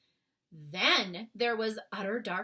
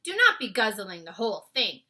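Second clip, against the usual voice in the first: BFG voice; 3 semitones higher, 8 dB louder than usual. A narrator's reading. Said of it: "the B F G went on".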